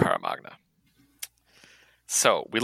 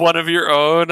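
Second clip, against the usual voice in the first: loud, higher mock-dramatic line; imitating Sage's overdramatic gravity; mock solemn Sage; 7 semitones higher, 8 dB louder than usual. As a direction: ham up the grave announcement. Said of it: "she said it like we were gonna start crying".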